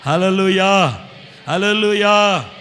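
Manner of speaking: loud, slow praise shout; hallelujah cry. Real, not acted. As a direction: ring it out in worship. (బిగ్గరగా, నెమ్మదిగా హల్లెలూయా)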